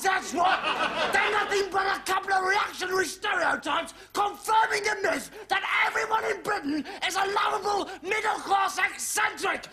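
furious shouted rant, slowing on the last lines; student shouting his hatred of the sitcom; ranting outburst. Acted. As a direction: yell it at the television. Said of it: "That was a highly articulate outburst".

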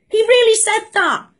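stunned he said it; really said high in disbelief; incredulous. Real, not acted. Disbelief at the PM's claim.

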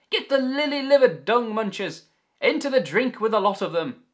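high, loud pirate roar; roaring captain. Acted. Captain urging crew against pirates, loud roaring. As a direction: roar it at your crew in battle. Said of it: "roared Solomon".

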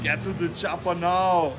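put-on a light Austrian-accented action-hero line; put-on Arnold accent. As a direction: lean into the Austrian accent just a little. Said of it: "don't put the affect on it".

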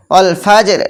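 অল ফাজের with a bounced j before r; teacher's careful example অল ফাজের; qalqalah demo. Shown as a demonstration. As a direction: echo the j lightly in ফাজের. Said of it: "এরকম ধরনের".

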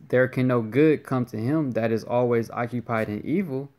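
measured, emphatic Bible reading; scripture reading. Acted. Teacher reading scripture to brothers, measured recitation. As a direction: read the verse out with weight.

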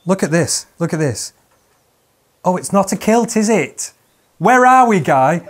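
loud, high comic rant; hammed-up indignant telling-off; mock outrage. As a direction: build to an exasperated shout. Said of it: "my blood was boiling immediately".

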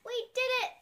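high bright cheer; a child cheering in triumph. A narrator's reading. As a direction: celebrate the win out loud. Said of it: "cheers Coco".

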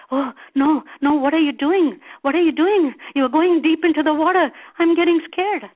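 loud, high panicked protest; scared monkey. A narrator's reading. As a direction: cry out in rising alarm. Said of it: "the monkey was getting scared".

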